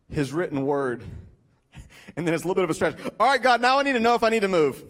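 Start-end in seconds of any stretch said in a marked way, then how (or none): 3.2-4.8 hurried plea. Acted. Urgent prayer when stretched.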